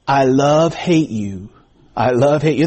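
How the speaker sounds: half-attempted comic Mexican accent; John Rodriguez's funny voice. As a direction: draw the words out, lightly mimicking a class clown. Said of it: "in this over-exaggerated accent".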